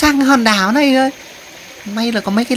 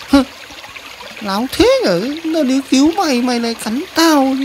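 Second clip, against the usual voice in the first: high, aggrieved cartoon voice; indignant complaint; 4 semitones higher than usual. Rescuer scolding the one who bit it, indignant. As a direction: draw out the first words, pitched up in grievance.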